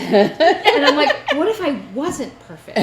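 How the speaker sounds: slow, high laughing disbelief. Real, not acted. Telling friends her reaction, laughing. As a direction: laugh through the question. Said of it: "own laughing retort".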